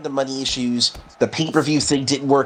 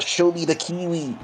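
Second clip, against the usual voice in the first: imitated yell; 4 semitones higher, 3 dB quieter than usual. Quoting Gato yelling from ringside, mild mock yell. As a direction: quote a yell without raising the volume. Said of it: "Gato yelling out".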